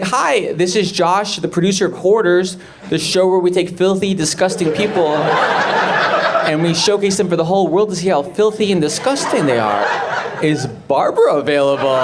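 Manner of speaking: lightly voiced chipper phone pitch; TV producer. Producer cold-calling a hoarder, lightly put-on sales voice. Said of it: "And the guy's like".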